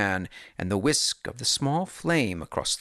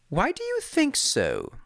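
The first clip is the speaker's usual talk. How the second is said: Holmes voice; 12 semitones higher than usual. A narrator's reading.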